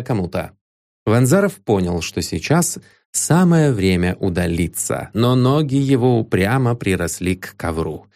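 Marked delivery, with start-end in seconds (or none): none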